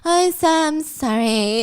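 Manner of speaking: slow, drawn-out whiny sorry; insistent forced apology. Acted. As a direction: drag out the apology to a nagging sister. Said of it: "Say you're sorry".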